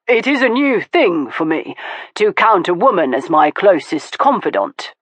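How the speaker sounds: lightly voiced man, thoughtful; Stoker, musing. Stoker musing to Veronica, thoughtful. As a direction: think it through aloud.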